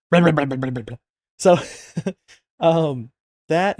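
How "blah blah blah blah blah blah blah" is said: louder mocking blah blah. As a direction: belt out the filler to mock it. Loud mock filler burst.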